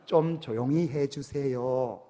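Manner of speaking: put-on slow Seoul-accent request, a touch firmer on 좀; mildly imitated Seoul dialect, drawn out slowly; Seoul speech. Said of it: "서울 말씨".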